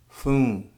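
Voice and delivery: foon, Philly for phone, said slowly; Philly pronunciation. Shown as a demonstration. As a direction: stretch the vowel in foon. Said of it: "Here you will find words like".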